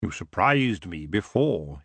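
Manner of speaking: low, slow, musing; musing elf king. Acted. Elf king musing to Tiffany about her gift. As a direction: turn it over slowly, low. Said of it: "he mused".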